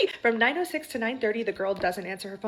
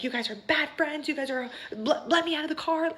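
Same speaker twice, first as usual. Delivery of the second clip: higher-pitched imitation of angry sister; half-hearted retold yell; mock yelling; 6 semitones higher than usual. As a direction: act out a protest without full volume. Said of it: "she starts yelling at my friend".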